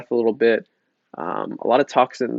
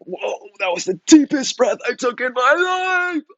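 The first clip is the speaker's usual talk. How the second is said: slow, high, hammed-up amazement; mock awe at the deepest breath; amazed student; 13 semitones higher, 3 dB louder, slower than usual. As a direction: gush like it's a revelation.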